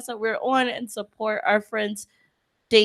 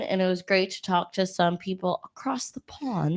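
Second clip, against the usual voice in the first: soft unvoiced aside; whisper; 6 dB quieter than usual. Real, not acted. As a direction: whisper the end of the thought. Unvoiced trailing remark.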